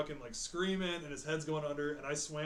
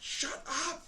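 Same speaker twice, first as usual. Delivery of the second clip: coach; 12 semitones higher than usual. Retold or imitated. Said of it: "my coach is like".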